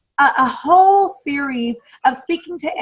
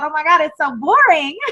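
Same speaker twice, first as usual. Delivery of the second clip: laughing self-mockery. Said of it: "and I thought".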